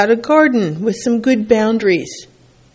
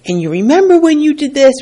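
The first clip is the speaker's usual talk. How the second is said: mock accusing dig; 6 semitones higher, 3 dB louder, faster than usual. Mock argument dragging up past.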